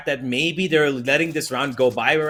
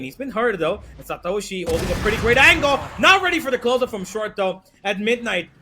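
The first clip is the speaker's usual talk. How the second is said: esports caster; 5 semitones higher than usual. Real, not acted. Rising hype through the fight.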